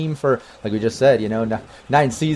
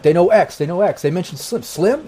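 mumbling soldiers; 5 semitones higher than usual. Acted. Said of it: "you hear 'em mumbling stuff like".

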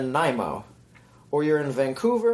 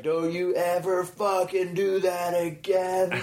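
slow, higher mock-angry warning; imitating a snap; 6 semitones higher, slower than usual. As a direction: drag out the threat like a furious friend. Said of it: "you snapped on us".

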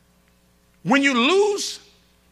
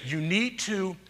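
imitating Daphne; 5 semitones lower, 10 dB quieter than usual. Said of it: "but she'll say".

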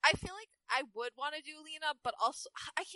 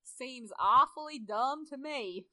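McCree; 2 semitones lower, much slower than usual. Acted. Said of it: "McCree said".

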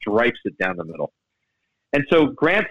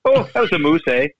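Canadian guy impression; 4 semitones higher than usual. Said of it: "that's a Canadian way of saying".

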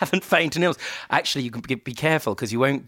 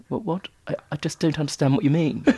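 baffled disappointment; 5 semitones higher, faster than usual. Retold or imitated. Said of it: "combination of disappointment and a total lack of understanding".

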